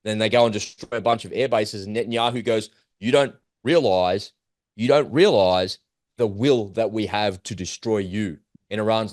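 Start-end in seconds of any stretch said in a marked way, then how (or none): 3.0-8.4 slow imitated menace toward Iran; menacing threat. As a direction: lean in and spell out the threat slowly. Voicing Netanyahu threatening Iran.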